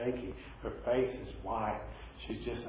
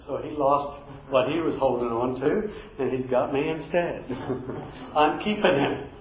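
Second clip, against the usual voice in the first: joyful punchline; 4 semitones higher, 7 dB louder than usual. Real, not acted. Preacher's joyful punchline, laughing.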